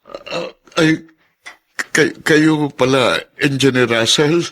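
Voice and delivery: high, slow, caught-off-guard stammer; flustered, surprised greeting; startled stammer. Acted. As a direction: fumble the words, caught by surprise. Startled by sudden visitor.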